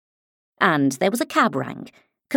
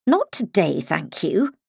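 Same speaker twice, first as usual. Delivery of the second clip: severe. Acted. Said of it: "she said to it severely".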